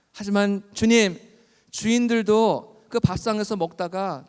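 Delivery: insistent, beseeching appeal; humble pleading. Retold or imitated. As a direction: plead as a lowly supplicant. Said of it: "예수님께 더 겸손하게 말합니다".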